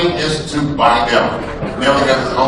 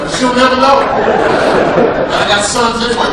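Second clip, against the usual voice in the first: sly; 10 semitones higher, 3 dB louder, slower than usual. Acted. Sly punchline.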